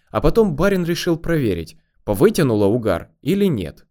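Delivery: ordinary delivery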